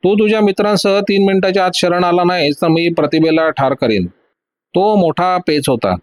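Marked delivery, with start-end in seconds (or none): 0.0-4.1 higher, menacing called-out threat; mild shout of a villain's threat. Acted. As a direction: threaten him across the deck. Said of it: "तो ओरडून म्हणाला".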